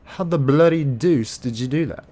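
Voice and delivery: high, exclaiming mock British accent. Streamer teasing May about her injury, mock British accent. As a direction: put on an incredulous British voice. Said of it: "May is British".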